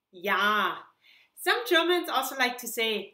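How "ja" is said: "Ja" said as yah, slow and clear; German ja. Shown as a demonstration. Teacher modelling German yes for learners. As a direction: model "Ja" with a long open ah. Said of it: "we say ja".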